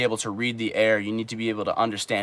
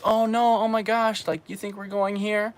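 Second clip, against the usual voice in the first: high, fading mock protest; hammed-up fake outrage; mock shocked girl; 9 semitones higher, 4 dB quieter than usual. Imitating a girl at a love hotel door, high mock protest. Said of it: "every time they always say".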